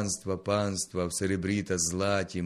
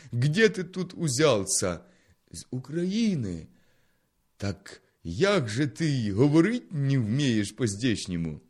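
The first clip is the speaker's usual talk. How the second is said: loud, higher surprised official; questioning countryman; 4 semitones higher, 5 dB louder than usual. Acted. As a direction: demand where he came from. (здивований гучний земляк-чиновник)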